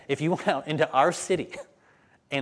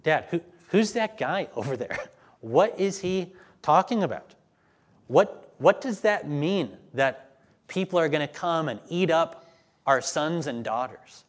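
put-on higher, wondering child's voice; curious child; 4 semitones higher than usual. A kid asking dad about the street preacher, higher and wondering. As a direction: ask it like a puzzled kid tugging a sleeve. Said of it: "And kids saying".

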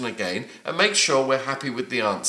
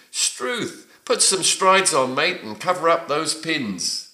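high-pitched surprise, falling at the end; surprised exclamation; 4 semitones higher than usual. Shown as a demonstration. Teacher reading quiz answer D in Aussie slang, mildly surprised. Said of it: "struth is a way of expressing surprise".

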